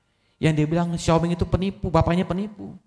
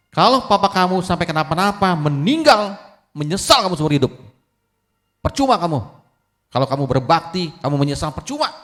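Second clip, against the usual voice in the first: loud, higher scolding that calms at the end; angry warning; 4 semitones higher, 4 dB louder than usual. Acted. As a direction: lecture the son in anger. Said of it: "Akhirnya tetangganya marah". (tetangga marah menasihati anak)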